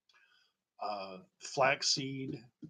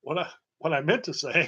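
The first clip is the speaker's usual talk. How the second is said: laughing; 4 semitones higher, 6 dB louder than usual. Real, not acted. Laughing mid sentence.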